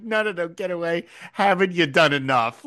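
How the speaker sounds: mock melodramatic Potter. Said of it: "That's so dramatic for no reason".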